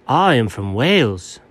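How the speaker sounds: insistent mock-British accent; bad British accent. Cat defends its origins to doubting dog, bad British accent. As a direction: claim Welsh roots in a terribly done British accent. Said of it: "a pretty terribly done British accent".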